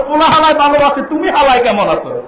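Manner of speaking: put-on old Dhaka accent. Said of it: "এরপর ঢাকায় যান".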